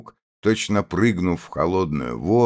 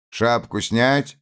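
barked order; 6 semitones higher than usual. A narrator's reading. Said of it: "крикнул офицер".

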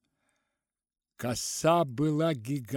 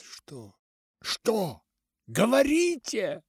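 pained outcry; 8 semitones higher, 7 dB louder, slower than usual. A narrator's reading. Doctor demands an answer, pained and rising. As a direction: cry out, aching to know. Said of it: "выкрикнул я болезненно".

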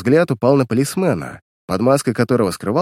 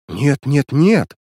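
vehement refusal; 4 semitones higher, 4 dB louder, much slower than usual. Acted. Girl refuses returning to uncle.

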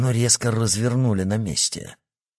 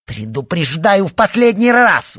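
high, loud shouted threat; furious girl screaming a final warning; 11 semitones higher, 9 dB louder than usual. A narrator's reading. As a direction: yell the last warning at her. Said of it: "выкрикнула она".

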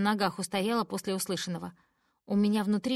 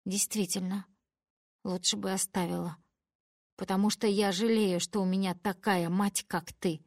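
through tears. Acted. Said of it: "сквозь слёзы говорю я".

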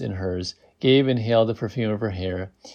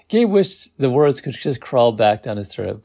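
ordinary delivery

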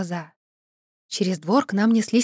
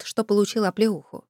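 ordinary delivery, nothing marked

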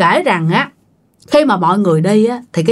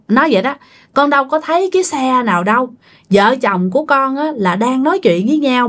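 tearful ghost plea; 3 semitones higher than usual. Retold or imitated. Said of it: "vừa khóc, vừa nói".

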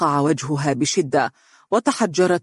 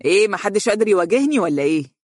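calling out taunt; 4 semitones higher, faster than usual. Acted. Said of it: "وهو يهتف بهم".

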